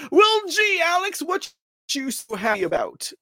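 high, loud sarcastic gee; mock surprise. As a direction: fake wonder at his grin. Mock baffled question to photo.

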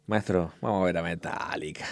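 hushed whisper to the boss. Retold or imitated. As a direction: whisper it like a secret. Retold asking the boss to leave.

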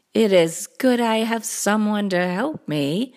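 perky small storybook cat; little cat. Acted. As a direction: echo the big cat in a smaller voice. Little Cat A introduces next helper.

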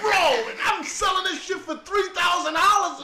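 hammed-up dealer boast. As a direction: sell it like a cocky kingpin.

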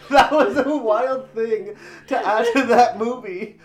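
laughing. Real, not acted. Laughing about the movie.

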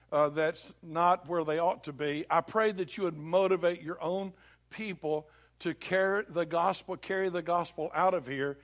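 measured prayer, dropping at the close. Real, not acted. Leads the congregation in prayer.

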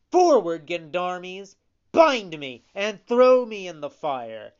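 loud, high heroic voice; heroic shout. A narrator's reading. Pinocchio offering to die for his friend, loud and heroic. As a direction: proclaim it boldly, offering yourself up. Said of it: "shouted in a loud, heroic voice".

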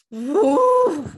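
a high, loud whoop; mock cheer. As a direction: cheer it out like a party. Retelling her own cheering exclamation.

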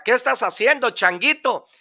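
high, curious animal voice; zebra's voice. Acted. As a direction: ask like a nosy zebra. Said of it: "le dice la cebra".

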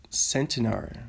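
Centenary stressed on the first syllable, SEN-tuh-nary; Centenary with stress up front and falling tune; first pronunciation attempt. Shown as a demonstration. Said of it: "don't know how to say it".

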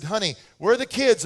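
put-on loud call for the kids. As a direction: call the kids from another room. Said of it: "I said".

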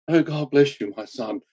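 a light, fond send-up of a priest giving a blessing; mock priest blessing. Mocking how a priest would bless him instead of being forgiven. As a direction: bless him like a pious old priest, half in jest. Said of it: "it wasn't like the priest".

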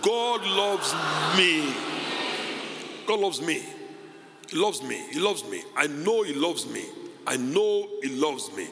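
firm, drawn-out declaration with conviction; covenant attitude. Shown as a demonstration. Preacher showing the congregation how to claim God's love, covenant attitude. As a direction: declare it like a sure promise. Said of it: "say with some covenant attitude".

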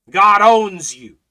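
slow, loud and weighty; preaching shout. Acted. Preacher declaring to the congregation, slow and loud. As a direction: drop it like a hammer, slow.

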